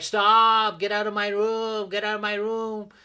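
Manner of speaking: high loud yell to be left alone; teen yelling. Retold or imitated. Teen daughter yells at her mother waking her up, loud. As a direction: shout her mother out of the room. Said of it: "She's like".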